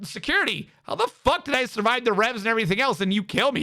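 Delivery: high, indignant mock yell at normal volume; fast, high-pitched retold rant. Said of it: "I was yelling".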